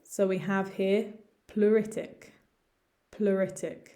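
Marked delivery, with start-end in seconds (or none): 1.5-2.3 "pleuritic" said ploo-RIT-ik; pronunciation model. Shown as a demonstration. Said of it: "complicated in terms of pronunciation". 3.1-3.9 "pleuritic" with a U sound, ploo-RIT-ik; pronunciation model. Shown as a demonstration. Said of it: "just think of the U".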